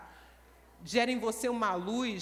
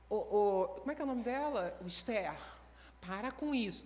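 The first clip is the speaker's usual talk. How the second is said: imitating Pastor Rosângela; 4 semitones lower, 4 dB quieter than usual. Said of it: "Tô imitando a pastora Rosângela".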